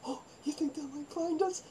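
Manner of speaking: high, soft, teary frightened whisper; mock scared whimper. Girls hiding in the attic, high teary frightened whimper. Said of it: "We were so scared".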